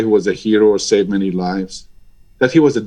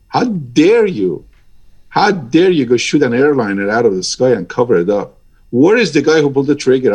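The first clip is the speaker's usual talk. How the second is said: emotional outburst. Real, not acted. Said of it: "I'm getting a little emotional about this".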